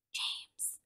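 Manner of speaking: hushed, breathy call into the dark; whispering a name. Retold or imitated. Kristen on the porch whispering for James, hushed. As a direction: whisper his name so the strangers won't hear. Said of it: "whispers for him".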